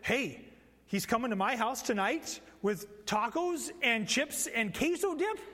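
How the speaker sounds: lightly voiced excited child; excited kids. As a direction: read it like a thrilled little kid. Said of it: "they read the letter and it says".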